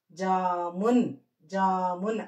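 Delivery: జామున్ read as one joined word, long "jaa"; syllables blended. Shown as a demonstration. Teacher showing learners how to blend letters, syllables blended. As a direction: draw out the first vowel of జామున్, blend into "mun". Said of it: "అలా కలుపుకుంటూ చదువుకోవాలి".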